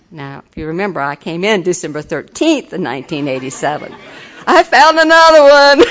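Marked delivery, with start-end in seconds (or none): 4.5-5.8 loud laughing punchline; high, laughing delight. Real, not acted. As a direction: laugh it out as you land the joke. Joking about finding husband.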